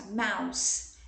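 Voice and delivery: "mouse" ending in a hissed S; S sound, not Z. Shown as a demonstration. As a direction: finish "mouse" on an S, never a Z. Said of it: "O S é sonoro aqui, eu falo com, com som de S". ("mouse" com som de S no final, não de Z)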